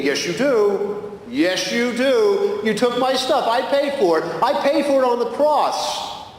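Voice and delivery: firm Jesus. Retold or imitated. Jesus voiced in retold dream.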